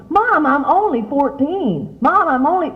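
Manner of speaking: put-on a high, slow, drawn-out teen whine; mock whine. A daughter whining to her mom, high and slow. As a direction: imitate a sulky teenager pleading. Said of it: "you don't whine and say".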